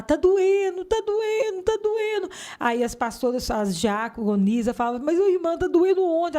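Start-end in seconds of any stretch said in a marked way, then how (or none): 0.0-2.3 screaming in pain. Retold or imitated. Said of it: "eu começava a gritar". 5.0-6.4 worried pastors. Retold or imitated. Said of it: "Elas ficavam preocupadas".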